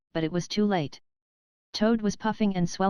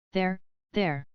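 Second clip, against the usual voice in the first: kindly. A narrator's reading. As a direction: soothe him gently, there, there. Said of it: "more kindly".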